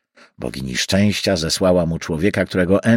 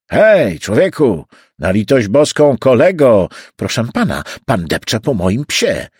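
a jostled man's annoyed call; indignant protest; 2 semitones higher, 5 dB louder than usual. Acted. Pedestrian to the man shoving through the crowd, indignant protest.

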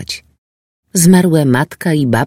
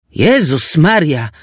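shocked yell; 5 semitones higher, slower than usual. Acted. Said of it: "wrzasnął".

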